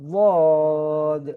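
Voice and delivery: slow, drawn-out "ওয়াদ" with tongue side on the molars; Arabic letter dad. Shown as a demonstration. Teacher demonstrating the letter to students, slow heavy dad. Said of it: "সকলে পড়িবা".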